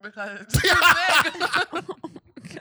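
talking around a big ice cube; words blocked by ice in the mouth; mouth full of ice. Real, not acted. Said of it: "but it's stuck".

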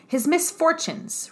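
high, slow scornful echo; Darcy's contempt. A narrator's reading. Darcy mocking Elizabeth's pity for Wickham, scornful and slow. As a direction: throw the words back at her with a sneer, slowly. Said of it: "repeated Darcy contemptuously".

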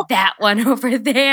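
slow, mock-ominous singling out; drawn-out retold accusation; accusing scanner. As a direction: imitate someone picking out the culprit. Voicing healer scanning out bad energy.

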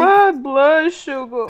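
slow, dragged blood sugar whine; imitating her mock diabetic line. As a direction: draw it out like a fainting diabetic. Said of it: "the way you fucking said it".

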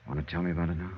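low, soft and tender; reassuring. Acted. Johnny reassures Kathy tenderly.

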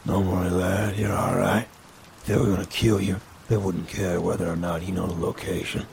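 lightly voiced old man; gentle reassurance from an old man; kindly old man. Greyjoe voiced in story.

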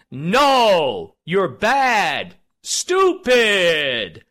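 loud, blunt telling-off; mock scolding. Host scolding his own party, loud mock telling-off. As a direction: bark it like scolding a kid.

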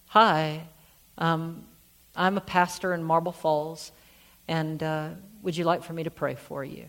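soft, gentle offer to a stranger; very gently. Retold or imitated. Pastor to a crying stranger in the waiting room, gentle and soft. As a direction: speak gently, hoping not to intrude. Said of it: "very gently".

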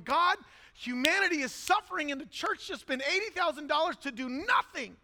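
retold anger at God. Frustrated pastor protesting to God on the plane, angry. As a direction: cry out in angry frustration, reenacted. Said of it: "I'm angry at God".

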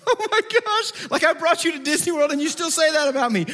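high-pitched incredulous protest; exasperated parent. Retold or imitated. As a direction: act out an appalled, exasperated dad. His exasperated reaction to the tantrum.

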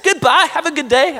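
mock British farewell; bad British accent. Preacher jokingly replays the Bible's brush-off, bad British accent. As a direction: send it off in a badly faked British accent. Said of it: "say that in a British accent".

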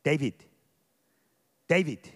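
a sharp, loud call across a tennis court; father summoning his son loudly. Retold or imitated. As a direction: shout the name to get his attention.

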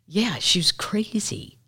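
slow conspiratorial whisper. Real, not acted. Whispering to listeners that Beale was crazy, slow whisper. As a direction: lean in and breathe it, slowly. Aside about the crazy lady.

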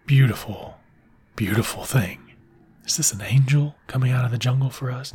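hushed wonder; awed whisper. Retold or imitated. Poppy's men hearing the singing, awed whisper. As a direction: whisper it like seeing an angel. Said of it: "Who's this English guy singing".

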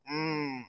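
soft, tight "mm" imitating held breath; held-breath hum. Imitating people stuck beside a sweaty guy, held-breath hum. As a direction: hum quietly as if holding your breath. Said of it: "they're holding their breath and shit".

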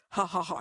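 mild mock devil laugh; a lightly voiced devilish laugh. Father laughing at his daughter, lightly voiced devilish laugh. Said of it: "laugh like the devil".

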